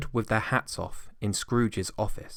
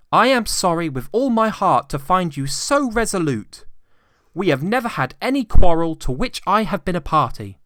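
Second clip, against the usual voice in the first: higher, brisk, friendly pleading; pleading nephew; 9 semitones higher, 8 dB louder than usual. A narrator's reading. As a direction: coax the stubborn uncle gently. Nephew's parting speech.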